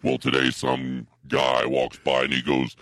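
slow, deliberate telling; slow it right down and enunciate; slowed down, careful storyteller; slowly and deeply. Acted. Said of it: "slowly and deeply".

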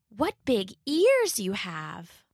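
put-on a small girl minding her manners; little girl. Girl, slow.

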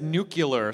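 "nuclear" said as NOO-kyuh-ler; mispronounced nuclear. Retold or imitated. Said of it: "a president that said nuclear".

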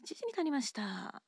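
announcer opener. Shown as a demonstration. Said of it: "Then I say".

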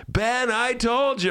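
high, slow told-you-so whine. Retold or imitated. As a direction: gloat it slowly. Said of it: "I'm getting the".

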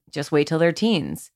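a foreboding, knowing threat; ominous warning. Shown as a demonstration. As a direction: say it like a dark warning about what's coming. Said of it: "If we just change the tone of voice".

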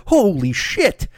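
slow stunned gasp. Pretend. Fishermen shocked.

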